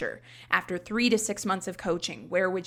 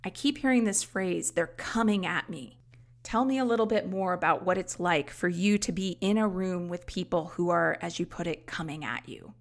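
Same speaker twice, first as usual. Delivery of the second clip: mirroring client. Shown as a demonstration. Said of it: "to mirror in that situation".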